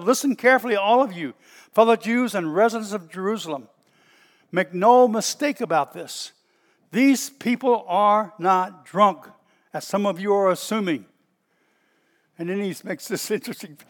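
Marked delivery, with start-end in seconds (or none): 0.0-11.0 loud, emphatic proclamation; shouting to a crowd. Acted. Peter stepping forward to the crowd, loudly proclaiming. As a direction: address the whole crowd with force. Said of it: "shouted to the crowd".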